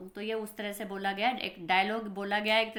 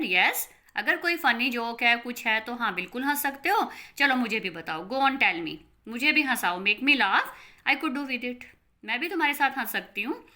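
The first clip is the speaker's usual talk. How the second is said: louder, taunting mother daring them; mocking challenge; 2 semitones higher, 4 dB louder than usual. Mother taunts giggling children, mockingly louder. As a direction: dare them to make you laugh.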